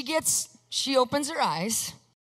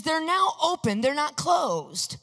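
high-pitched, emphatic mock insistence; imitated indignant protest; mad mother; 5 semitones higher, slower than usual. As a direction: hammer the point slowly, as an upset mother. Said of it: "she's actually mad".

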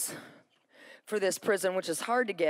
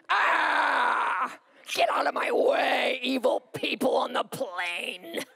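retold angry yell; 3 semitones higher, much slower than usual. Yelling at plane passengers, retold.

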